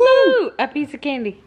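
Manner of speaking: high, loud fake amazement; mock awe. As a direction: gush over nothing sarcastically. Mocking boring vlog content.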